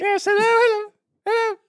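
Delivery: high, fluttery greeting; eager hopeful. Acted. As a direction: answer too quickly, hoping to be picked. Eager hopeful bride greets suitor.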